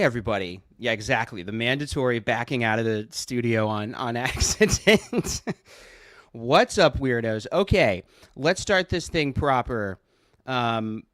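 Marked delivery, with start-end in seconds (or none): 6.3-10.0 excited greeting. Real, not acted. Energetic stream greeting.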